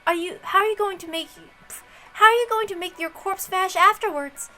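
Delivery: high, bright-edged voice, pleased with her own move; smug detective. Acted. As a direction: lord it over the table with a smile in the voice. Challenges the rival in high voice.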